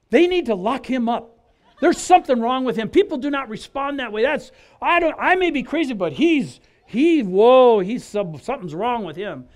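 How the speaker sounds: mock fuming at a baffling coworker; blowing off steam about Stanley, a bit hammed up; retold outburst. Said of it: "Just blew my gasket".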